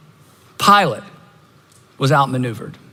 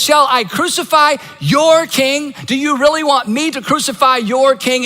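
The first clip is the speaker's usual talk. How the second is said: taunting call to crowd; 7 semitones higher than usual. Retold or imitated. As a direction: call it out to the mob, twisting the knife.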